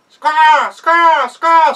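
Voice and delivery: high, loud squawking cry; weird bird squawk. Acted. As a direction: screech it like a strange bird. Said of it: "making a weird".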